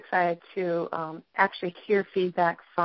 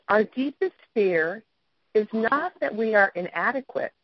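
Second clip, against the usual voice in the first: reading a quote. Shown as a demonstration. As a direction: read it out with weight. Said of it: "And it says".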